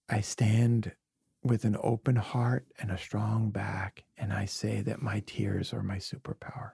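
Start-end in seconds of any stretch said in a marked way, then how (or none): 4.2-6.7 whisper. Real, not acted. Tender confession about his tears.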